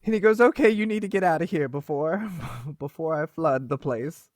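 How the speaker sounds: tearful goodbye, voice cracking. Acted. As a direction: fight back tears while urging her out. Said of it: "the tears fully run down his face".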